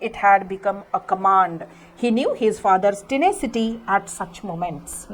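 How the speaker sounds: deliberate storybook reading for a class; story read-aloud. A narrator's reading. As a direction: read each word out slowly for pupils. Teacher reads story text aloud.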